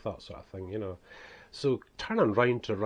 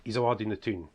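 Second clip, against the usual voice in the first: broad northeast Scottish accent, "doon the toon"; broad Scottish dialect; 4 dB louder than usual. Shown as a demonstration. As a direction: say it in strong local Scots. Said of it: "it's things like ... that's how we speak".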